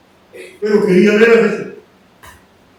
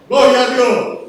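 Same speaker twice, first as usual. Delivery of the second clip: mildly raised cry of praise; retold praise shout; 3 semitones higher, 4 dB louder than usual. Healed blind man praising God, retold shout. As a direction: call it out like a restrained shout. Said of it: "y se puso a gritar".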